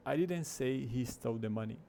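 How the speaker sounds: "he" picked out from the sentence; emphasize "he"; stress on HE. Shown as a demonstration. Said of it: "a ênfase na primeira vez tá no he".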